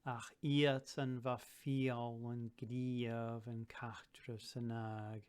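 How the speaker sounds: slow recital leaning on "fial" and "griav"; rhythmic recital. Shown as a demonstration. Teacher reciting a verse to show its rhyme, slowly. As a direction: chant it slowly and let the rhymes ring. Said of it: "Great rhyming scheme, fial, griav".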